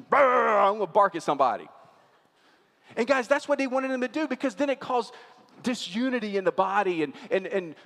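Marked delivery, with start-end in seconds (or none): 0.1-1.7 mock irritation. Pastor acting out his own frustration, mock irritated. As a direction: play the grumpy self about to snap.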